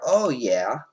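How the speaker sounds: a bit over-keen agreement; too enthusiastic. Real, not acted. Answering a political quiz question, a bit too enthusiastic. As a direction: agree with a little too much relish. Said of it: "I sounded a bit too enthusiastic".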